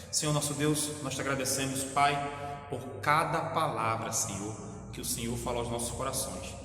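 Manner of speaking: fervent pastor's prayer, swelling on each Pai; closing prayer. Acted. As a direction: pray for the sick and grieving, rising with feeling. (oração fervorosa de pastor)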